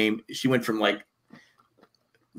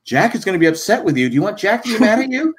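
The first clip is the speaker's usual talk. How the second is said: higher warning singsong; mock scolding parent; 9 semitones higher, 4 dB louder than usual. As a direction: threaten the child with Jack. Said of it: "parents will go".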